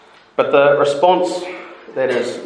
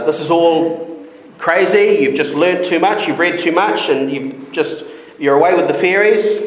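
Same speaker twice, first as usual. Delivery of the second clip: light scoffing paraphrase, a touch higher; mock dismissive; 3 semitones higher than usual. Preacher voicing Festus mocking Paul, lightly scoffing. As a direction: brush the idea off as crazy. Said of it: "basically saying".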